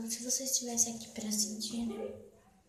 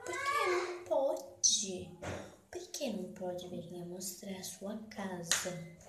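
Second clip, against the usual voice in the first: voicing her thoughts; slower than usual. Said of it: "aí pensei assim".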